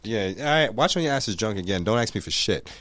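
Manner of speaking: low, quiet grumble; muttering. Real, not acted. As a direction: mutter it under your breath. Muttered threat to girlfriend.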